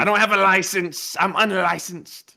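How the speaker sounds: high put-on voice; high, mocking character voice; caricature voice. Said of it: "I'm the king of that voice".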